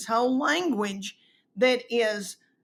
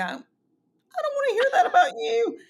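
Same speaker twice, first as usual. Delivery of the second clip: mock husband; 5 dB louder than usual. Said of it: "and he would go".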